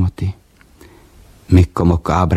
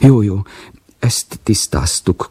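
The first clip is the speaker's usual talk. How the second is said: sag into gloom; turning glum; 4 semitones higher, slower than usual. Acted. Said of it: "komorodott el".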